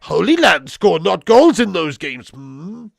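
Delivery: slow, loud mock Yoda read; playful mock Yoda, slow and loud. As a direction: ham up the Yoda word order, drawn out. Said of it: "Why are you back to speaking like Yoda".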